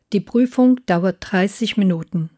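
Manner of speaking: ordinary talk, nothing marked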